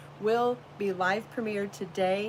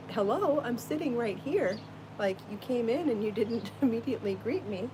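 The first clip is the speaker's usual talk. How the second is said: lightly voiced indignant pet, slightly higher; voicing the bunny; 3 semitones higher than usual. Owner voicing her bunny complaining he wasn't greeted, mildly indignant. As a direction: play the bunny, mildly put out. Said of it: "he cries and goes".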